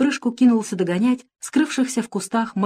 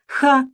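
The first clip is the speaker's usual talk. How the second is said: one mock guffaw, a bit higher and louder; short laughing ha; 7 semitones higher, 5 dB louder than usual. A narrator's reading. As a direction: bark out a quick laugh. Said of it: "хохотнул маленький Джон". (короткий смешок «Ха!»)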